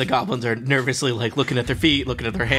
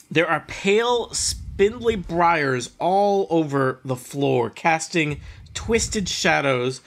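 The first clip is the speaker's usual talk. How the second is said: slow, eerie scene setting; scene narration; 3 semitones higher than usual. A narrator's reading. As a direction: paint the grove slowly.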